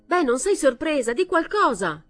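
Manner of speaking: put-on loud, high drunken shout. A narrator's reading. Drunk son-in-law yelling at silent mother-in-law, loud shout. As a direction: yell it at her to get a reaction. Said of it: "gridò Brian".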